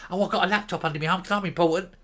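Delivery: quick, lightly voiced pompous mock of Patrick; smug mockery. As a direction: rattle it off like a self-important politician. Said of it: "Look at him, his smug little face".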